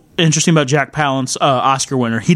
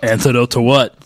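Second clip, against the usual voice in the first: usual speaking voice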